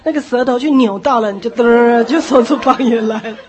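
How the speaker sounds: high, loud, fast urging voice; pushy tongues coach. Retold or imitated. Tongues teacher urging a seeker to repeat hallelujah, loud and fast. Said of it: "他就说".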